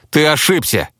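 high-pitched desperate accusation; distressed denial. A narrator's reading. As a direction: refuse to believe it and blame the messenger. Zhenya in denial accuses the hero.

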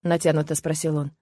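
ordinary delivery

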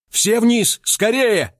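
terrified alarm cry; frightened shout. A narrator's reading. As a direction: scream everyone below to safety. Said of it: "в один голос испуганно заорали".

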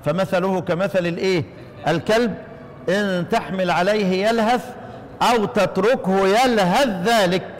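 slow, measured recitation of the verse; teacher reciting the verse to show the reading; Quran recitation. Shown as a demonstration. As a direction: recite it slowly and evenly. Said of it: "الموضع هذا في سورة الأعراف".

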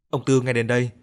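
plain reading voice

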